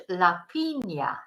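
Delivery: "piña" with a ny glide, PEEN-ya; ñ sound. Shown as a demonstration. Teacher giving the Spanish word, "piña" as peen-ya. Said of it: "it's a ñ sound".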